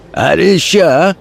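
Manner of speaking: a thug calling for a slap; hoarse shout. Acted. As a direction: bark it out slow and hoarse. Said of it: "хрипло выкрикнул".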